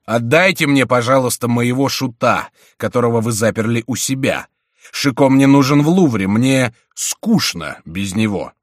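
loud, composed royal demand; calm, commanding. A narrator's reading. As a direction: make the request as an unhurried order. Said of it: "спокойный и повелительный голос". (спокойно и повелительно)

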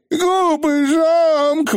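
высокий протяжный вой ужаса; взвой медленно и очень высоко; испуганный вой. A narrator's reading. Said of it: "взвыл какой-то фигль". (испуганно взвыть)

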